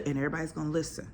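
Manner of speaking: usual speaking voice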